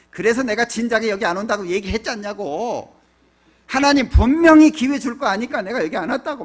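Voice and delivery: talking back defiantly. Retold or imitated. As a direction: imitate someone hotly talking back to God. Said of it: "막 대들잖아요".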